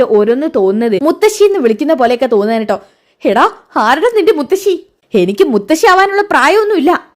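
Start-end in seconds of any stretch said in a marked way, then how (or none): 3.2-7.0 indignant retort. Acted. Jalaja offended at being called grandma.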